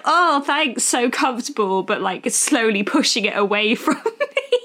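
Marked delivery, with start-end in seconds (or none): 0.0-1.8 higher-pitched polite pretence; feigned gratitude. Retold or imitated. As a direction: pretend to be grateful for it. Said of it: "pretend like".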